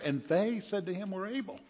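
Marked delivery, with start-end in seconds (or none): 1.1-1.6 high, doubting "You are. Really."; preacher doubting the disciples; sceptical. Acted. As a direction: raise an eyebrow at their claim. Mocking disciples' claim.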